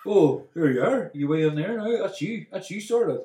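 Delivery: mock-excited teasing; mock coaxing. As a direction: imitate a partner nudging someone into a shop. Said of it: "Every time we see a Superdry shop".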